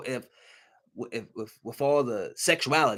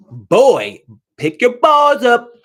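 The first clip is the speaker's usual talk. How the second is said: louder, mocking rebuke; loud scolding; 8 semitones higher, 11 dB louder, much slower than usual. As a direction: bark at him to man up. Scolding a soft-voiced man.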